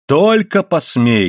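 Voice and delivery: high, slow, ringing dare; loud warning. A narrator's reading. Wife beside herself warning her husband, loudly. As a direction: dare him, stretching each word. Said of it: "громко сказала она".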